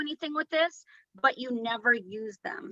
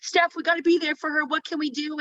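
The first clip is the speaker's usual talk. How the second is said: higher, urgent imitation of upset friend; retold distress; 4 semitones higher than usual. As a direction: act out a worried friend's plea. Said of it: "she's crying for you".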